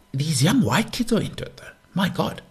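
high, aghast voice of a white parent; mock shocked parent. Mocking a startled white parent, high and appalled. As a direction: gasp at the kids' music taste. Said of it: "mock shocked white parent".

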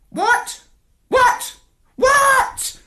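high, rising outraged squawks; shocked parrot. A narrator's reading. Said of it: "exclaimed the parrot".

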